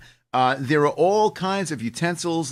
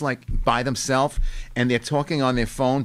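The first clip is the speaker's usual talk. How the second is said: ordinary delivery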